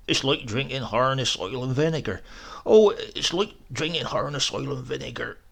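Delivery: put-on complaining old man. Sick old man grumbling to housekeeper about medicine. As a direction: whine it out like a sour invalid. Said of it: "in a sick fashion ... complaining".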